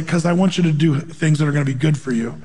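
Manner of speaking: low, gently loving quoted voice; a touch of tenderness, low and even. Retold or imitated. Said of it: "God would lovingly say".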